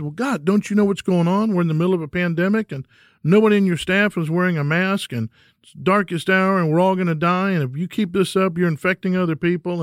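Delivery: imitating a frantic shouting rant, pitched high; hammed-up panic, pouring it out fast and high; mock panicked rant. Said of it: "flips out and starts screaming at the doctor".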